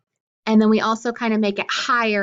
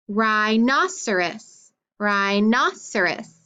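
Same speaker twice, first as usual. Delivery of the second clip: rhinoceros slow with NOS stressed; slower than usual. Shown as a demonstration. Teacher sounding rhinoceros slowly to show the accent, NOS stressed. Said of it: "The nos, I accented that time".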